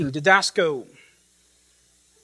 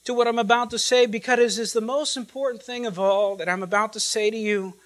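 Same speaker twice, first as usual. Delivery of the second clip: higher, fervent voicing of Jesus; Jesus speaking; 4 semitones higher than usual. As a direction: speak as the risen Lord, earnestly. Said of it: "as if Jesus is saying".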